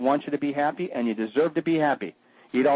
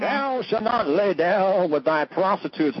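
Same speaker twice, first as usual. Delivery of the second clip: mock preacher; 5 semitones higher, slower than usual.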